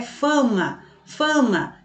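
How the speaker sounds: "fama" with the first A hummed through the nose; nasal sound. Shown as a demonstration. Teacher repeating for pupils, "fama" with nasal first A. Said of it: "tem esse som assim meio, é, nasal".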